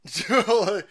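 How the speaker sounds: laughing out the cat's name; bursting into a laugh on the name. Real, not acted. Laughing as the cat walks in on the stream.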